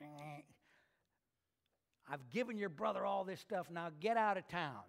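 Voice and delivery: dry, sarcastic king dismissing them; mock the gift with a scoffing 'Eh'; a touch of sarcasm, get out of town. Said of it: "It's almost a sarcasm".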